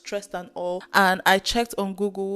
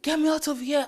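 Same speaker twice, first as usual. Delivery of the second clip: retold panicked scream; 7 semitones higher than usual. Claustrophobic patient inside the scanner, mild mock scream. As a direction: re-enact panic with a muted, high-pitched plea. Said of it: "I'm screaming".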